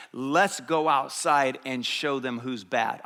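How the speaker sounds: slow, measured show of bravado; rally the boys like a cool tough guy; slow, deliberate swagger; tough-guy challenge. Retold or imitated. Young tough rallying his buddies.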